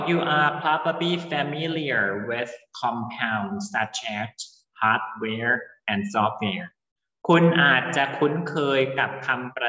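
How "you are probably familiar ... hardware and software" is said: reading the English sentence aloud slowly and carefully; careful, slow read-aloud for the class; slow textbook reading. Acted. Teacher reads textbook line. (อ่านประโยคภาษาอังกฤษช้าๆ ให้นักเรียนฟัง)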